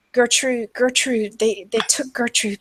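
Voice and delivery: lightly voiced distraught woman, begging; pleading. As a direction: stammer out a small, helpless plea. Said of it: "pleading with you".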